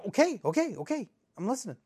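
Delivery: high, flustered backing down; nervous appeasing. Acted. Host told to listen up by angry guest, nervously appeasing. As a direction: yield at once, voice jumping up.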